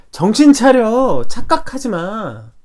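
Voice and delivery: a father's firm rebuke, drawn out; stern rebuke. Acted. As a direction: wake them up with a stern slow command. God rebuking, slow and loud.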